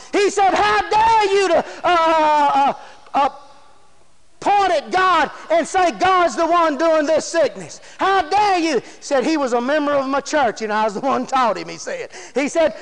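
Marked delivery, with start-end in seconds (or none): 0.5-8.8 preacher's acted-out indignation; retold scolding in a raised preaching voice; indignant rebuke. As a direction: rebuke him with righteous force. Pastor indignantly rebukes the doctor.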